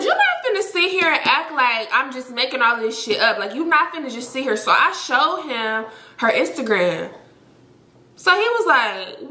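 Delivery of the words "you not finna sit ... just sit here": high-pitched protest, mildly heated; re-enacted disbelieving pushback; retold indignant challenge. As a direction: call out the denial, pitched up. Retold confrontation over his denial.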